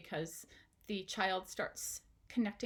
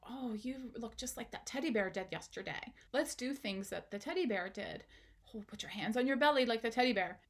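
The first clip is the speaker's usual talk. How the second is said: put-on gentle coaching to child. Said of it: "making a comment on how".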